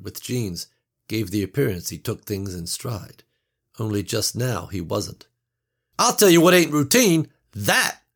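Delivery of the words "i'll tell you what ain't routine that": loud, high, rattled objection; angry outburst. A narrator's reading. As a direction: snap back, shaken. Passenger objects, points window.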